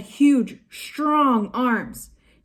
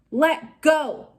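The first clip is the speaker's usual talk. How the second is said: shout; 6 semitones higher than usual. A narrator's reading. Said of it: "Annie shouted into his face".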